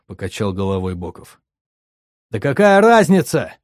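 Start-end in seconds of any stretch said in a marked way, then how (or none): 2.3-3.5 high, loud angry shout. A narrator's reading. Nikita jumping up from the throne, furious high shout. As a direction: snap it out as a furious yell. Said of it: "крикнул я".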